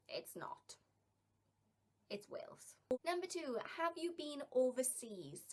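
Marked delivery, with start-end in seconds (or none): 0.1-2.7 half-joking whisper; whispered aside. Real, not acted. Vlogger privately insisting to viewers it's Wales, whispered. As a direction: breathe it like a little secret.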